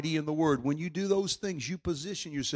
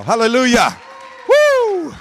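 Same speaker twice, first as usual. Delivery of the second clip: much higher, louder hallelujah cry; ecstatic shout; 9 semitones higher, 14 dB louder, slower than usual. Real, not acted. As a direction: burst out in joyful praise. Climax shout of praise.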